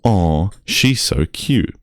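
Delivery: slow cooing aw; drawn-out mock coo; cooing audience. Mocking the crowd's slow coo at Abby. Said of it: "audibly go".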